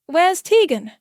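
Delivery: high, loud, furious demand; roaring. A narrator's reading. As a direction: bellow for her in rage. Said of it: "he roars".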